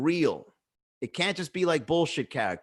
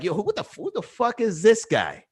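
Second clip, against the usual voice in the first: higher, baffled mock challenge; suspicious street guy sizing you up; sizing-up stranger; 5 semitones higher than usual. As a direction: play a guy squinting at a weirdo. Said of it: "they size you up and they're like".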